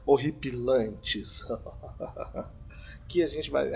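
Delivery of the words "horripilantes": slow, drawn-out, mock-ominous word; suspenseful announcement. Host hyping the scary legends, slow mock-spooky voice. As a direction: savour every syllable for suspense. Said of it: "tá tocando uma trilha de suspense".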